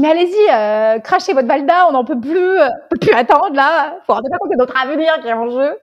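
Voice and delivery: impatient, begging the caller for the news; feverish urging. Retold or imitated. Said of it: "On était fébriles".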